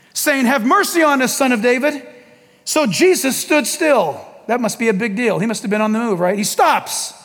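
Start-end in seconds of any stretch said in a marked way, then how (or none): 0.4-2.1 mildly raised, insistent plea; a moderate call for mercy; crying out. Acted. Blind men calling out all the more, mildly raised cry. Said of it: "they cried out all the more".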